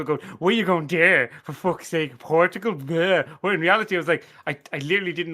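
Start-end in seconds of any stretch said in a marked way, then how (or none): 0.4-3.3 mock rude question. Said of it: "basically insulted Portugal".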